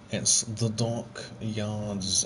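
a very slow mock posh English "dockyards"; exaggerated slow posh English accent. Shown as a demonstration. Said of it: "if you say it in a posh accent".

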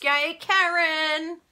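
high, slow cheer; excited cheer. Real, not acted. Congratulating Karen on her Thinlits, slow cheer. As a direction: celebrate her gently.

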